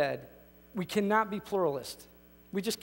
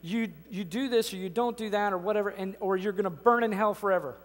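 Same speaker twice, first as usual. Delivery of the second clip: angry preacher. Retold or imitated. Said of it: "very angry, hot, sweaty preacher saying".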